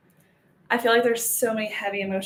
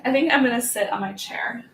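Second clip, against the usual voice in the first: usual speaking voice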